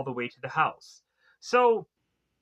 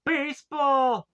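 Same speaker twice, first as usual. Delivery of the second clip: stretched, higher and a touch louder shout; mock yell; 9 semitones higher, 4 dB louder, slower than usual. Tiny son yelling up at his dad, a drawn-out mock shout. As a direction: call it out slowly across the room. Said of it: "trying to yell at his dad".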